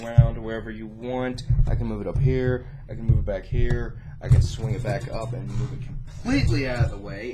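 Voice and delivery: muffled voice, mic moved away. Real, not acted. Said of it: "sorry if my voice is a little muffled".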